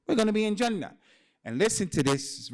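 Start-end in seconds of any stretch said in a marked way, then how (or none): 0.1-0.9 fervent promise. Real, not acted. Preacher assuring his congregation of paradise, rousing. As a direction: lift the crowd with conviction.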